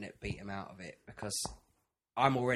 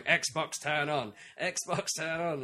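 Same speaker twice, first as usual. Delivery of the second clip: phone voice; 4 semitones higher, much slower than usual. Retold or imitated. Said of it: "And I'm going".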